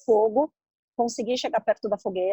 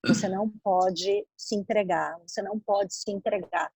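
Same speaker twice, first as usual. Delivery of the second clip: lightly voiced guiding voice, a bit lower; inner voice; 3 semitones lower, 4 dB quieter than usual. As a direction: quietly voice a firm inner voice. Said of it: "Aí vinha uma voz falando assim". (voz interior, levemente interpretada)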